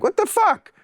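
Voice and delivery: high, incredulous what the fuck; shocked disbelief, voice shooting up; stunned friend demanding an answer; baffled outrage. Retold or imitated. Colin baffled his friend quits.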